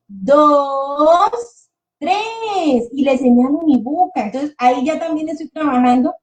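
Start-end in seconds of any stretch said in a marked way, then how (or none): 0.1-2.9 put-on slow, higher, playful counting for a little kid; counting with a child. Shown as a demonstration. Teacher counting Lego pieces to her son, slow and playful. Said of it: "le voy contando".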